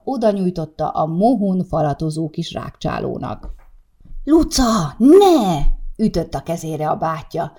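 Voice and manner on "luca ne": loud, high scolding cry to his little sister; sharp warning shout. Acted. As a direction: snap her name and stop her hand. Brother stops sister's hand. (hirtelen, hangos rászólás a húgára)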